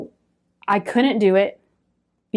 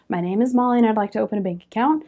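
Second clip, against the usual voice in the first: rehearsing; faster than usual. Retold or imitated. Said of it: "I'm rehearsing in my head".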